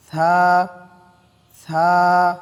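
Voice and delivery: breathy dental থা, called out; Arabic letter tha. Shown as a demonstration. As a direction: let air escape on থা. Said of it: "হালকা বাতাস বের হবে".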